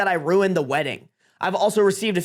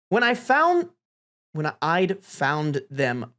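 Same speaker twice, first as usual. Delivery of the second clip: halting, measured speech delivery; 3 semitones lower, much slower than usual. Acted. Best man addressing the wedding, halting speech voice. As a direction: address the room, restarting the line. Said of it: "I'm giving a speech voice".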